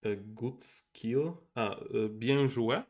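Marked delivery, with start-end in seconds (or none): 2.1-2.8 French phrase. Shown as a demonstration. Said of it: "something like this".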